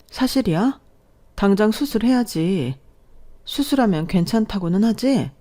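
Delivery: high, shocked questions on hearing bad news; shocked disbelief. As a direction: pitch jumps up in alarm at the news. Daughter hears father's cancer news.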